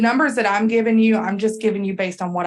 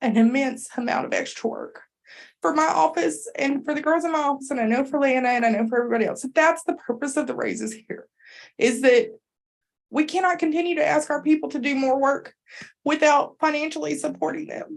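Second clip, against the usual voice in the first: tearful, near-tears speech, pitched up; 6 semitones higher than usual. Explaining the reason for the raises to the others present, tearful. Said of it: "Sorry, I'm getting teared up".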